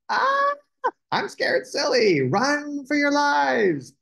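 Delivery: high-pitched cry of mock terror; hammed-up panic, very high; panicked shout. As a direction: scream a warning, stretching the last words. Terrified onlookers flee the flying dragon.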